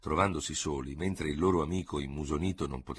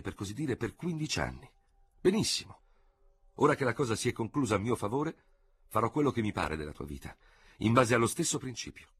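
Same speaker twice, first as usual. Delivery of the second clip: a lightly voiced general, higher and composed; calm victorious general; 6 semitones higher than usual. A narrator's reading. General dictating terms to his defeated rival, composed.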